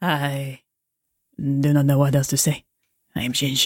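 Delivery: failed put-on French accent. Playing a character called ginge, in an attempted french accent. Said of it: "I cannot do a French accent".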